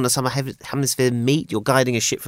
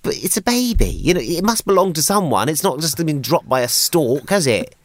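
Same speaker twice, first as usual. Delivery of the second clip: incredulous inner voice; 4 semitones higher than usual. Retold or imitated. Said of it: "you're thinking".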